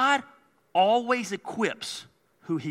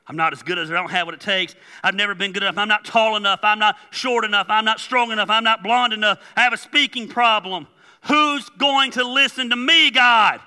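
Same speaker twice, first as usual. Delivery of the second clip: loud pile-up of protests, building higher; slinging excuses; 3 semitones higher, 8 dB louder than usual. Acted. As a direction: fire excuses at God, building to a loud plea. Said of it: "start slinging them excuses at him".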